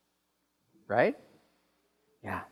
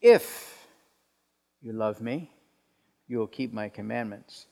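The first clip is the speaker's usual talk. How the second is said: measured, halting conditional with an expectant edge; stern demand; 3 semitones lower than usual. Shown as a demonstration. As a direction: stress a drawn IF, then pause before the rest. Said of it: "an imagined tone of expectation or demand".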